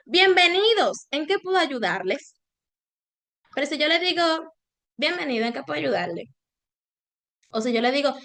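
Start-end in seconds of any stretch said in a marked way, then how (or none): 0.0-2.3 warm welcome. Shown as a demonstration. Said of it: "la misma frase con distintos tonos". 5.0-6.2 fast, rushed, indifferent greeting. Shown as a demonstration. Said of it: "la misma frase con distintos tonos".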